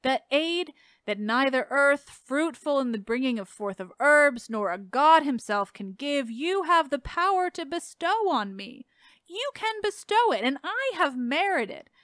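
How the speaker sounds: slow, solemn reading of verse; dramatic poetry reading. Acted. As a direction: read it like a heartfelt plea. Reads a dramatic poem passage.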